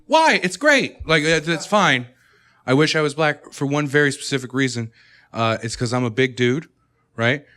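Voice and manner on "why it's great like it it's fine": nervous white people. Retold or imitated. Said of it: "white people giggling, going".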